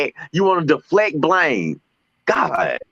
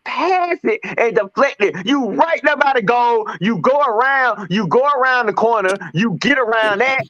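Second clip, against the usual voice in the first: exasperated rant; 5 semitones higher than usual. Retold or imitated. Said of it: "'Cause he's sitting there trying to".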